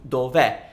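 "dov'è" ending on an open è, as in egg. Shown as a demonstration. Teacher shortening two words into one, open final è in "dov'è". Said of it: "It's always an open è".

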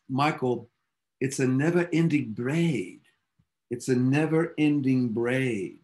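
lightly imitated Scottish accent; a touch of Scottish in the voice. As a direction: quote the Scotsman with a hint of a Scottish lilt. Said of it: "in his Scottish accent".

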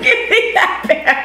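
high, slow silly voice; funny high voice. Pretend. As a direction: drawl it in a squeaky high voice. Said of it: "What was that?".

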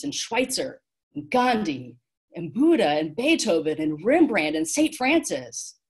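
confident list, lifting on each name; ringing confidence. A narrator's reading. Boy names fighters to guide, ringing with confidence. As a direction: call out each name with growing certainty. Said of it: "Calvin's voice rang out with confidence".

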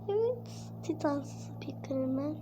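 slow breathy whisper. Acted. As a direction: hush it, slowly. Villain answers in hushed tone.

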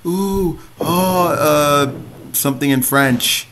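put-on French woman's reaction; mock French woman. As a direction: imitate a French woman's fussy oohing. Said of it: "that French woman's gonna go".

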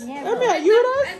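slow, whining imitation of the boy; drawn-out mock plea; mocking whiny child. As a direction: tease him by copying his whine. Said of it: "mocking the child's plea".

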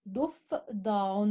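ضفدع said very slowly, each syllable stretched; slow syllable demo. Shown as a demonstration. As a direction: spell ضفدع out slowly for children. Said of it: "الحرف الناقص هو حرف الفاء". (ضفدع بنطق بطيء ممدود)

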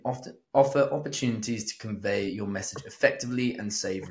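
formal read-aloud, each heading set apart. Acted. Co-host reading out quick explanations section, measured read-aloud. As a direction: read the book's advice out evenly. Reads a book passage aloud.

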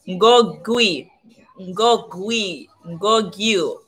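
"ngogui" said slowly, starting on an ng sound; careful ng onset on "ngogui", ending gwee, then gyu; pronunciation demo. Shown as a demonstration. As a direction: sound out "ngogui" and "ngogyu" slowly, one at a time. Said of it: "It's pronounced".

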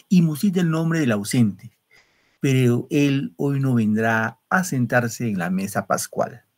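measured, lingering poem reading; poem recitation. Acted. Teacher reading a nostalgic poem to students, recited.

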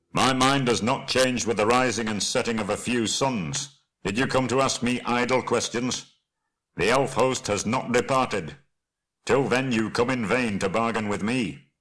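lightly voiced proud dwarf, defiant; mildly indignant dwarf leader; stubborn dwarf lord. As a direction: refuse them firmly as a dwarf king. Thorin answers the envoys.

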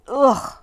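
disgusted grunt. A narrator's reading. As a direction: recoil with a shuddering "ugh". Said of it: "just touching her made me shiver".

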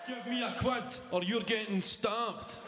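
put-on high, slow child's threat, softly delivered; threatening kid. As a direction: demand money in a high, drawn-out voice. Child threatens dad for money, acted.

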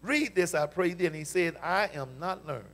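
measured, solemn reading of the verse; formal Bible reading; scripture reading. Real, not acted. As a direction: read it out to the church.

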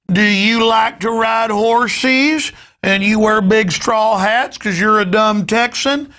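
mocking a New Yorker talking down; condescending New Yorker. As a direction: sneer at Texans like a patronizing visitor.

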